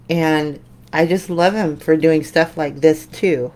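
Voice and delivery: talking around a paintbrush; words round a brush held in teeth; brush in mouth. Real, not acted. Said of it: "Sorry, I got the brush in my mouth".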